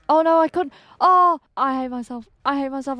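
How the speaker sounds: loud, high cry of dismay; panicking. Real, not acted. Player who just botched the rare kill, panicking. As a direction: blurt it out loudly in a panic. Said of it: "Oh, I'm panicking".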